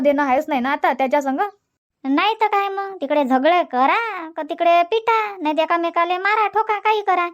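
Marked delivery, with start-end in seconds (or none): 2.0-7.3 higher voice of a scolding neighbour; neighbour woman. Acted. Neighbour Shantabai scoffs at the son, higher voice. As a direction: scoff like the woman next door.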